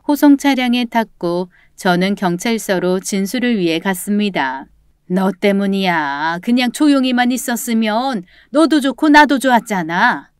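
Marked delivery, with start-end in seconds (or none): 5.1-10.3 resentful blaming. Acted. Arrested grandmother blaming roommate, mildly resentful. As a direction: lay the blame on the listener. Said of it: "내 탓이라며 원망을 하고".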